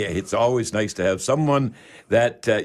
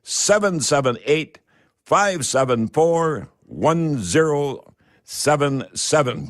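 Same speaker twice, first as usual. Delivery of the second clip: slow dictation; slower than usual. Real, not acted. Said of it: "I'll give you that again".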